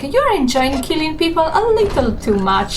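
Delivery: a hint of a disapproving mentor; imitating Alexander. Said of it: "Alexander was like".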